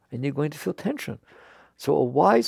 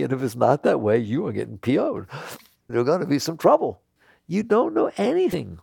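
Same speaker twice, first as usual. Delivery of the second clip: worked-up; 4 semitones higher, 4 dB louder than usual. Real, not acted. Scolding the audience, amused.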